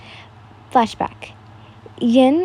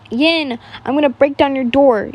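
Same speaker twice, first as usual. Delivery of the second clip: mock shout; 3 semitones higher, 4 dB louder than usual. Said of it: "Inosuke shouted".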